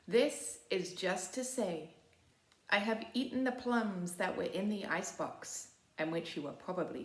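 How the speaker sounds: gentle, unhurried poem recital; poem reading. Acted. Librarian sharing her favourite poem, gentle and unhurried. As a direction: savour each line like an apology note.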